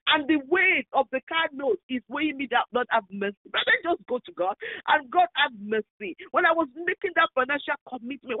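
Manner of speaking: pleading prayer for mercy, rising and falling; fervent prayer. Real, not acted. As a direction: beg God for mercy, earnest and urgent.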